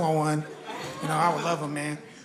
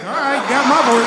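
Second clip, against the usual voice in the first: eager yes; 4 semitones higher, 7 dB louder than usual. Retold or imitated. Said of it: "I'm like".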